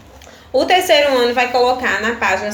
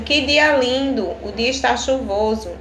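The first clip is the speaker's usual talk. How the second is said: exclamation. Shown as a demonstration. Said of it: "quando eu uso uma admiração".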